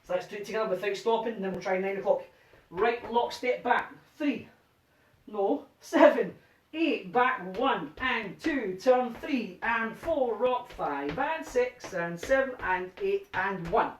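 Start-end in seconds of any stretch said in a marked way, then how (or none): 2.7-13.9 slow rhythmic count calling; dance count calling. Shown as a demonstration. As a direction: call the steps to the beat.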